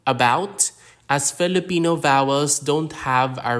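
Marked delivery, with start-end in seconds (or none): 0.1-0.7 "about" opening on a reduced, neutral uh; English-style "about", weak first vowel; schwa sound. Shown as a demonstration. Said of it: "pronounced with a schwa sound".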